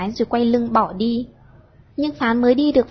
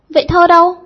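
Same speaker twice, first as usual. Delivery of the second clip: high, much louder impatient question; eager demand; 7 semitones higher, 10 dB louder than usual. A narrator's reading. The girl demands the poem right away, high and loud. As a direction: pounce on him for the poem.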